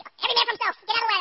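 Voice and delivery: loud, high retold panic; scared shouting. Man fleeing a thunderclap on the cruise deck, retold scared shout. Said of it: "man, I was scared".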